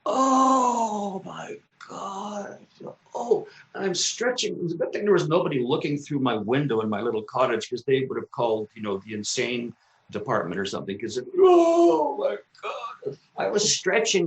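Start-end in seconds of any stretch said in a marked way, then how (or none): 0.0-3.5 very slow, high drawn-out sigh; blissful stretch; stretching groan. Retold or imitated. Stretching like an animal. 11.0-13.2 ecstatic sigh. Retold or imitated. Stretching like an animal.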